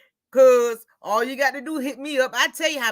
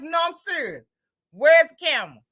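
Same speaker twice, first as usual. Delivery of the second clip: 1 mock outraged; 3 semitones higher, 4 dB louder than usual. Protesting grocery bill to cashiers.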